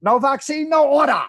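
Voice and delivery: mock Asian accent. Reading a viewer's comment, mock Asian accent. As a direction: ham up a broken-English Asian accent. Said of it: "does his wife's Asian accent".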